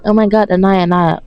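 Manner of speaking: a hint of an exasperated viewer; mild mock fan. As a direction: tease a whiny fan lightly. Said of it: "people are like".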